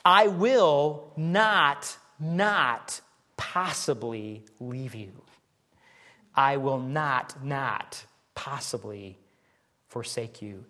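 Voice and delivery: slow, with weight on each not; preacher spelling out the Greek double negative, slow and heavy; emphatic negation. Shown as a demonstration. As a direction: stretch out I will not, not possibly. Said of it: "it comes off something like this".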